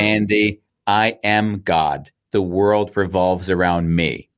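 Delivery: imitating a nasty father, slow and measured. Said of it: "in a very nasty type voice".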